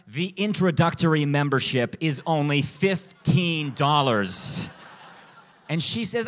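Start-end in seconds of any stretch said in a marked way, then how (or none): 0.1-4.7 loud, mock-grand proclamation; declaring. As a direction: declare it proudly for comic effect. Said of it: "And I declare".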